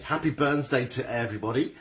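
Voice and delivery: hammed-up Scottish accent, pitch leaping at the end; awful Scottish accent. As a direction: have a bad go at a Scottish accent. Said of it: "my awful, awful Scottish attempt".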